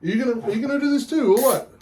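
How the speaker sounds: put-on Irish accent. Beer show host greets punters, hammed-up Irish accent. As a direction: put on a cheeky Irish brogue. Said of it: "keep this accent up".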